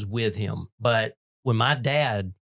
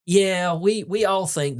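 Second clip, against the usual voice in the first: nurse voice; 8 semitones higher, slower than usual. Retold or imitated. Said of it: "her line is something like".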